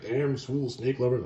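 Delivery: slow, muttered curse from a fleeing barbarian; lightly voiced annoyed Conan; gruff Conan grumble. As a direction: drag it out with disgust. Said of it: "he's like".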